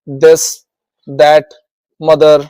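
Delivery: this, that, mother with a Hindi dental द for TH. Shown as a demonstration. Teacher showing the other TH sound, द in this, that, mother. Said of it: "टीएच को द बोला जाता है".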